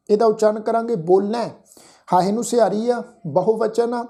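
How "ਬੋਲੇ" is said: ਬੋਲੇ ending in an open, nasalised ai vowel; open nasal ending. Shown as a demonstration. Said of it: "ਦੁਲਾਵਾਂ ਵਾਂਗ ਉਚਾਰਨ". (ਬੋਲੇ ਨੂੰ ਦੁਲਾਵਾਂ ਵਾਂਗ, ਨਾਸਿਕ)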